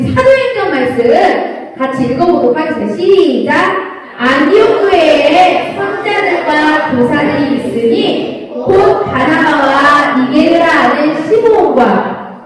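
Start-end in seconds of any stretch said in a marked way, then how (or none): 4.2-12.5 slow, measured Bible reading; scripture reading. Acted. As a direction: read the verse slowly together with the children. Reading scripture aloud slowly. (아이들과 함께 천천히 성경 읽기)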